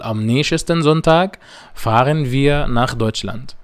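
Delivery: am nächsten Sonntag said very slowly and carefully; slow German demo. Shown as a demonstration. Teacher models German sentence two for students, very slowly. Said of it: "الجملة التانية بتقول".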